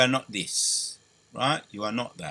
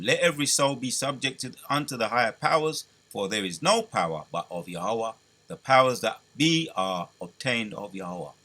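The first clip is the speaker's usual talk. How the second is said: a slightly raised, solemn reading of the verse; scripture reading; 2 semitones higher than usual. Acted. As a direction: read the verse out like a preacher. Reads scripture aloud.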